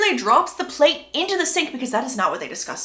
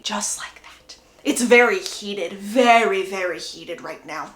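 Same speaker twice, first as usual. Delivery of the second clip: unvoiced whisper; 4 semitones lower than usual. Real, not acted. Whispering to viewers about the heated fight. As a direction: hush it like a secret.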